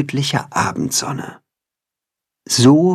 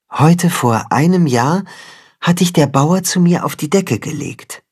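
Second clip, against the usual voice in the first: lightly voiced motherly cat, higher; 7 semitones higher than usual. The mother cat tells Timme about his first day, lightly voiced. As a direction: gently tell the hen where he came from.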